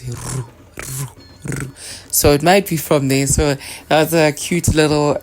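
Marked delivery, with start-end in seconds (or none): 0.0-1.7 soft breathy "ru, ru, ru" imitating wingbeats; falcon wing sound. Teacher imitating the falcon's wingbeat sound, much softer. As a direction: mimic a falcon flapping its wings, softly. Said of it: "it goes".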